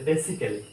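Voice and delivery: "basically" in four syllables, beh-si-keh-lee; "basically" as BESS-i-kelly; mistaken pronunciation. Shown as a demonstration. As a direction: say "basically" with short e and full -kelly. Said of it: "এটা ভুলভাবে বলে যে".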